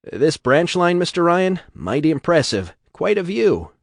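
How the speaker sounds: butter up the boss a little; eager flattery. A narrator's reading. Poole flatters Ryan on train.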